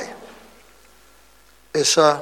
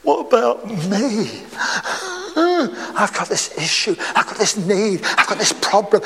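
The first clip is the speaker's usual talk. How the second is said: hammed-up pleading with sighs; mock self-pity; 3 semitones higher than usual. Believer bargaining with conscience, in mock self-pity. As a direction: plead your case, breaking into stammered sobs of I.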